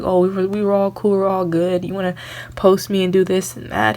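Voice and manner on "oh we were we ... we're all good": mocking fake friends. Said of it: "Now you wanna act like".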